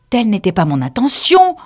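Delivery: mild, hurt protest. A narrator's reading. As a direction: object earnestly, voice lifted. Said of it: "protesta Alice".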